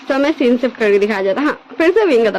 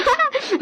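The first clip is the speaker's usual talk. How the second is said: high burst of laughter; loud laugh. Acted. Younger brother bursts out laughing at his jealous elder brother. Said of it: "काफी ज्यादा loudly हंसने लगता है".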